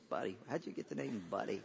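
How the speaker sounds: quick, disbelieving "Buddy?"; a hint of scoffing disbelief; incredulous. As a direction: let them sound baffled by the name. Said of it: "you can kinda hear it in their voice".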